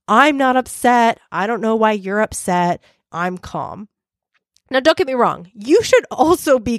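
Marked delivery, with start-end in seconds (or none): 0.1-3.9 smug calm. Retold or imitated. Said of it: "staying calm as proof".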